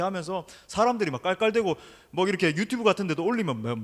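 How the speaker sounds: ordinary talk, nothing marked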